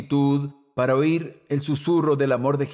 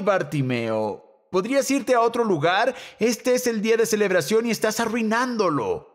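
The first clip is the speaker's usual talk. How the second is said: higher, haughty voice of a snobby crowd; annoyed crowd voice; 5 semitones higher than usual. Retold or imitated. Crowd telling blind Bartimeo to go away, haughty and higher. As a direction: scold the beggar like an embarrassed townsperson.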